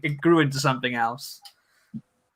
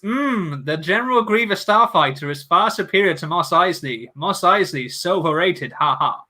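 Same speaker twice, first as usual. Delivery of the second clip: unintentionally sarcastic. Real, not acted. Streamer reading a viewer's Starfighter comment, unintentionally sarcastic. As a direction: chat read-out with accidental sarcasm. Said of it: "I just sound like I'm being sarcastic".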